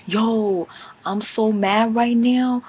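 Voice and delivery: a hammed-up angry twin; imitating Sin. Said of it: "She's like".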